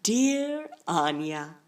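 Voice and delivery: slow, drawn-out formal salutation; measured, ceremonious letter opening; letter-writer's voice. Acted. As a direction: stretch out the greeting like an official letter. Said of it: "started to read".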